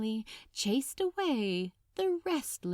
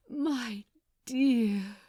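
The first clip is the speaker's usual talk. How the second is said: aching. Acted. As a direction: let dear swell with longing.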